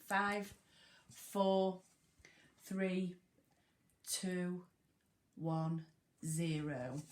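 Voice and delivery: teacher counting down writing time; fading countdown. Shown as a demonstration. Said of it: "countdown for writing".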